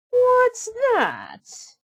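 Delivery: high, startled shriek of a question; a spoiled sister hearing a noise; very high, alarmed squeal; surprised stepsister. Acted. Stepsister voiced.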